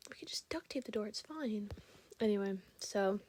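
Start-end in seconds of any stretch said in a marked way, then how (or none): 0.1-1.7 softer, whispered retelling of the guy's line; whispered guy imitation. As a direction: murmur it as a fond inside joke. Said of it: "He was just like".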